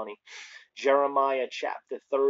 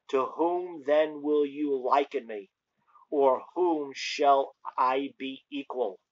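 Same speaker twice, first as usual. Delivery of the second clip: solemn, emphatic scripture reading. Acted. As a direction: proclaim the verse slowly, with weight. Reads scripture aloud.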